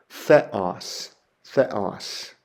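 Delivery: "theos" said THEH-os with th, falling; Greek pronunciation. Shown as a demonstration. Teacher modelling theos for students. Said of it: "would be pronounced".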